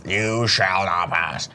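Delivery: slow, mock-booming proclamation, held back. Host repeating the wizard line, mildly booming and slow. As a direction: lightly echo a wizard's grand command. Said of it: "Booming voice".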